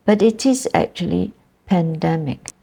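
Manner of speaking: pandemic with the first syllable stressed; pandemic, PAN stressed. Shown as a demonstration. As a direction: put the weight on PAN in pandemic. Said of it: "The stress is in the first syllable".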